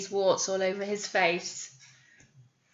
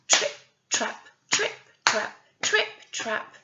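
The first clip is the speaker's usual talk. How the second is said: trotting noise. Shown as a demonstration. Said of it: "the noise of the first billy goat".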